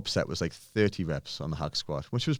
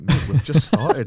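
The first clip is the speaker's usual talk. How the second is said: slow, louder, higher mock tease; teasing coach; 7 semitones higher, 10 dB louder, slower than usual. Trainer telling puking client workout just began, slow and loud. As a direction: drag it out slowly like a gleeful coach. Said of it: "I was like".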